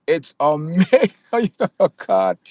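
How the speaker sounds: drawn-out word breaking into a laugh; real laugh bursting through in disbelief; amused amazement. Real, not acted. Amazed at own old videos coming true, laughing.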